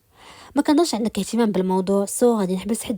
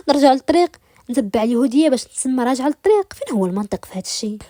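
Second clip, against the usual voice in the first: a touch higher and louder, scoffing; indignant retort; 4 semitones higher, 4 dB louder than usual. Acted. Rimas mocking the captor's idea of the right path, indignant. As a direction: throw his words back at him.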